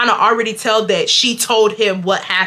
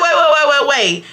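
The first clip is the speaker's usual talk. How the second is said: laughing protest; 4 semitones higher, 3 dB louder than usual. Real, not acted. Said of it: "now I'm getting mad".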